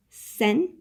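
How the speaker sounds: SENSIBLE said syllable by syllable, sen-suh-bul; broken into syllables. Shown as a demonstration. Teacher sounding out the glossary's phonetic spelling, syllable by syllable. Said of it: "how do I say the word".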